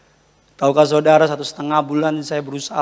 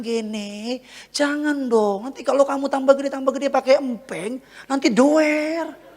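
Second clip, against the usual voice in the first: higher-pitched coaxing, last word drawn out; gentle coaxing father; 8 semitones higher, 3 dB quieter than usual. Retold or imitated. Papa warning Gene about the pacifier, gentle high coaxing. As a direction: plead softly with a small child. Voices himself coaxing crying son.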